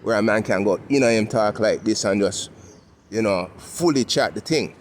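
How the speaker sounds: West End Toronto Caribbean patois; lightly demonstrated Caribbean dialect. Shown as a demonstration. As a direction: talk in Caribbean dialect, at an easy pitch. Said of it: "we had our Caribbean dialect".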